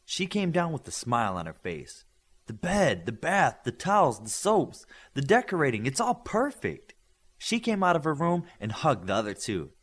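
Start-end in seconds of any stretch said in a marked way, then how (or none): 2.4-6.9 delighted. Acted. Delighted listing of new room.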